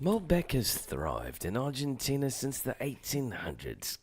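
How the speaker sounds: slow mock British documentary narration; mock British narrator. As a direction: play a pompous British wine narrator, slowly. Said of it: "put a fucking British accent on anything".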